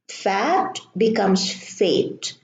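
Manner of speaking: fat with short a, then fate with long a; vowel contrast demo. Shown as a demonstration. Teacher reading word pairs slowly for students, pron demo. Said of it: "changes the pronunciation".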